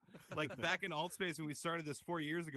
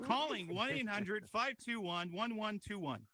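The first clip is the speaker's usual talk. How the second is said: robotic dialer; 5 semitones higher than usual. Pretend. Car auto-dialing support line.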